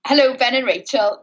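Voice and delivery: put-on Welsh lilt, starting high; Welsh accent. Podcast host attempts a listener's greeting in a Welsh accent. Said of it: "Should I speak in a Welsh accent for this one".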